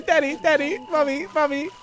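a hint of the robot voice; mock Siren Head. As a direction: copy the creepy daddy mommy call. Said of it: "Siren Head comes out with the same voice".

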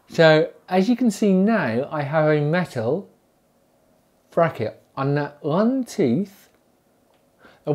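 talking with lip held open; lip pulled down. Real, not acted. Seen 1: Fingers hold lower lip down showing teeth, released by 8.2.

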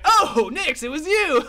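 high, loud, laughing cry. Acted. Kobold to Nix after being tackled into gold, laughing. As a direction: laugh through the words with delight. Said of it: "and he laughs".

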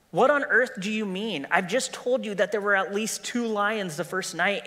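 a hint of a worried boy; young Shasta. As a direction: ask it like a puzzled boy. Shasta protests.

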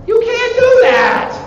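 high, loud, drawn-out telling-off; mock scolding shout. World's states warn an invader off, high mock scolding shout. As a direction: cry out a slow, high-pitched warning. Repeats the warning, escalating.

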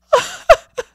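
high, loud sobs; heaving, wordless weeping; hard sobbing. A narrator's reading. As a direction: sob as hard as you can. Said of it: "sobbing as hard as they could".

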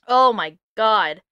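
ordinary delivery

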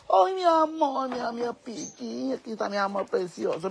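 slow, drawn-out doting coo; sing-song endearments starting high and sinking; cooing pet talk. Real, not acted. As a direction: coo lovingly to a beloved pet, stretching the vowels. Cooing to her pets.

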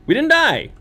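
high relieved cheer; excited. Real, not acted. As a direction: cry it out in glee. Survived the jump test.

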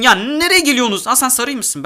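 sudden high alarm; alarmed shout. Real, not acted. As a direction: yelp at players coming at you. Enemies approaching in game.

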